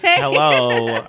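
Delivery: eager greeting. Real, not acted. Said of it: "Sorry, I didn't mean".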